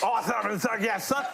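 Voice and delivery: cartoon voice. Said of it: "I'll give them the whole concert".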